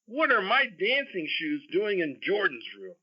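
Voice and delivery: high, slow storybook scream at normal volume; high-pitched, drawn-out protest, hammed up for listeners; Olivia's mock scream. A narrator's reading. Grandfather reads a child's outcry from his book, mock scream. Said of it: "Olivia screams".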